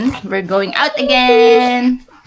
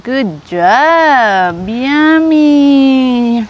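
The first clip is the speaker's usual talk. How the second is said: cheerful praise; 5 semitones higher, 9 dB louder, much slower than usual. Real, not acted. Praising baby eating.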